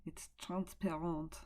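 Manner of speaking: put-on French accent, measured delivery; attempted French accent. Shown as a demonstration. Teacher translating the French clip for her class, attempted French accent. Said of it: "in my best accent now".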